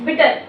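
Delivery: बिटर as one unbroken word. Shown as a demonstration. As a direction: say बिटर in a single go, no break. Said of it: "एक बार में बोल दिया ना". (बिटर बिना रुके, एक बार में)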